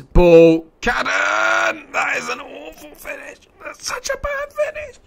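real high-pitched despair; anguished shouting. Real, not acted. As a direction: scream that climbs into a very high wail. Anguish at missed chance.

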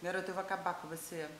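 low, soft menace; low-voiced motherly threat; quiet threat. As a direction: warn her with contained anger, voice dropped. Mother threatens cheeky daughter.

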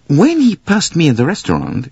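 put-on high, accented detective voice; intense Poirot. A narrator's reading. Poirot tells his friend of the man, high and intense. Poirot recounting a sinister impression.

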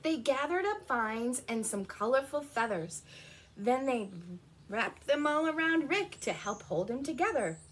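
animated picture-book narration; story reading. A narrator's reading. Telling children of the determined rocks, lively storytelling. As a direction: read it out clearly to young children.

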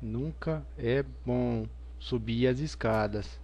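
slow, eerie drawn-out warning; spooky horror voice. Acted. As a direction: stretch it out like a creepy narrator.

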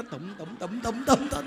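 repeated "tụm" thumps rising in pitch and volume; mimicked pounding heart. Monk mimicking stage-fright heartbeat for followers, comic pounding. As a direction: imitate a nervous heartbeat, building into laughter. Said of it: "nó gung cái tự nhiên tim".

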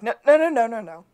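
loud, high burst of refusals; urgent backpedalling. Acted. Bird halting a walkaway deal, urgent. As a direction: stop him before he walks off, loud and high. Bird stops Gus walking away.

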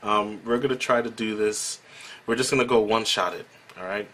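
gum in mouth, laughing apology; chewing gum while talking. Real, not acted. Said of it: "I do have a piece of gum in my mouth".

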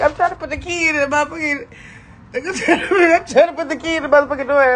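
fast, tumbling words; rushed excitement. Real, not acted. Fumbling the key in her new door, rushed and excited. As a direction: rattle it off while fumbling.

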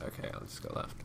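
talking while chewing. Real, not acted. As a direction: say it with a mouthful. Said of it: "can you guys hear me chewing".

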